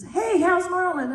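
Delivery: Shirley's question repeated for the punchline, cheery; imitating Shirley MacLaine. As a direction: repeat it brightly. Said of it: "And she says".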